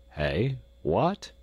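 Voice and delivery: a sharp startled exclamation; surprised cry. A narrator's reading. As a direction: suddenly caught off guard. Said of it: "cried the doctor".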